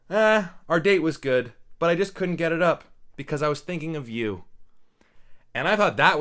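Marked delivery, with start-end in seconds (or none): 0.1-4.4 quoted line. Retold or imitated. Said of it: "where Kevin Connolly says".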